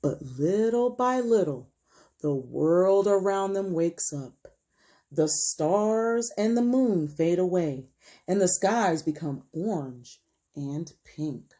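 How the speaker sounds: read-aloud storytelling. A narrator's reading. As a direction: stretch the words as the story unfolds for children. Reads picture book aloud.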